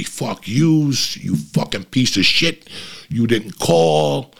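emphatic scolding with a drawn-out finish; mock tirade, no real shouting; retold mother's tirade. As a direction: imitate a mother laying into her son. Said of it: "she just unleashed on me".

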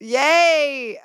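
high, happy little cheer. Real, not acted. Host congratulating a guest after the hot seat, high cheer. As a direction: celebrate it with a lifted voice.

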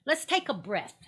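ordinary delivery

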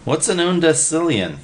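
high, wide-eyed question; puzzled Willie. A narrator's reading. Willie asking Freddy about the big number, high and puzzled. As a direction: ask it like a kid lost.

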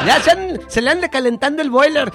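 high, loud, laughing protest; excited teasing shout. Acted. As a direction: squeal at her friend's cheek. Teasing friend about dirty talk. (chillido pícaro y alto)

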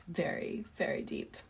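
hushed spooky whisper. Pretend. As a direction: whisper it like a secret. Hushed spooky aside about zombies.

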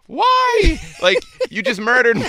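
high, loud cry of shock; retold scream. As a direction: shriek it like you've just been stabbed. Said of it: "His reaction was".

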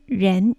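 人 as Mandarin ren with a rising tone; second tone. Shown as a demonstration. Teacher spells out 人 for learners, rising second tone. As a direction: lift the pitch through 人. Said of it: "健絶音二声です".

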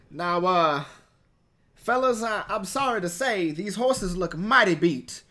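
Kevin Spacey. Acted. Player tells the party in character that the horses are done for, lightly drawled impression. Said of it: "go full swing into Kevin Spacey".

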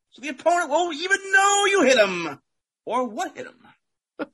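sports announcer ad read. Acted. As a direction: read it like a game-day ad. Football-themed ad read.

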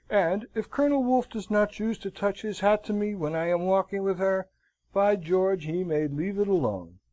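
flushed, indignant retort; heated. A narrator's reading. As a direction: flare up in defiance. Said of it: "flushing up".

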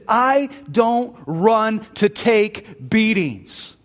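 slow, weighty delivery of a wounded protest; upset. Acted. Beaten sprinter answering the woman consoling him, upset and emphatic. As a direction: draw it out, acting the upset runner. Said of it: "Harold Abrahams is so upset".

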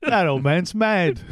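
Peter Mayhew imitation. Doing an impression for friends, slow grumbly old man. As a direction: drag it out like a cranky old man. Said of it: "That's my Peter Mayhew imitation".

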